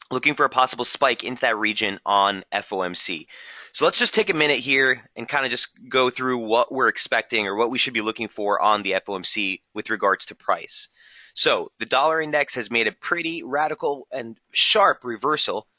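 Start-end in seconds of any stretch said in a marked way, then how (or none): 3.7-15.7 hoarse voice. Real, not acted. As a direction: voice going hoarse. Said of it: "losing my voice".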